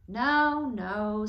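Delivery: loud emphatic no; firm reassurance. A narrator's reading. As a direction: cut off the panic firmly. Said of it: "said Mister Little".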